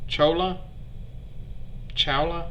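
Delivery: questioning "Chola?", then "Chowla?" with an OW vowel; tentative pronunciation. Real, not acted. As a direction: test "Chola" and "Chowla" softly, unsure. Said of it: "my attempts to enunciate all these words".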